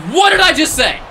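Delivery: high, loud exasperated cry. Real, not acted. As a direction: throw it up high in disbelief. Warned, then it happens.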